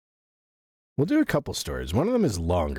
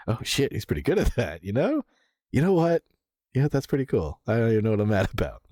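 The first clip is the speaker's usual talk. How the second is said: mock impressed viewer; 5 semitones higher than usual. Imitating a won-over viewer.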